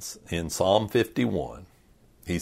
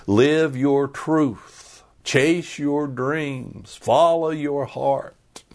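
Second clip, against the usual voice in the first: slow, drawn-out mock of self-help slogans; 4 semitones higher, slower than usual. Preacher parodies the happiness gospel, slow and mocking. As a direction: say them like hollow catchphrases.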